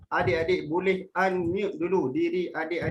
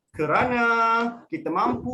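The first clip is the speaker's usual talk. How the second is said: slow, spaced phrasing; 5 semitones higher, 3 dB louder than usual. Shown as a demonstration. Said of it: "ada yang atas slow, perlahan".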